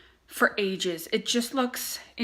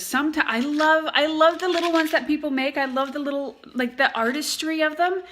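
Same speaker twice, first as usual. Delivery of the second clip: stuffy nose; 6 semitones higher, 3 dB louder than usual. Real, not acted. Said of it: "I always have a stuffy nose".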